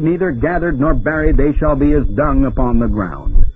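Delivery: preacher intoning a prophecy of doom; solemn oratorical Bible reading; declaimed scripture. Acted. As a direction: carry the verse in long, sustained phrases. Reads scripture aloud to congregation.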